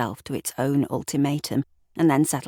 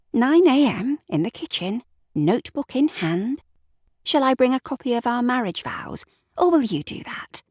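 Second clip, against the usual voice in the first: higher, mocking Sarah voice; Sarah voiced higher, sarcastic; sarcastic wife; 8 semitones higher than usual. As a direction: sneer through the questions.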